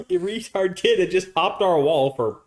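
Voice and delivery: high, strained rush of amused disbelief; excited incredulity. Real, not acted. Telling of the dog climbing after a kid, excited squeal. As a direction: carry the punchline way up high. Climax of funny dog-chase story.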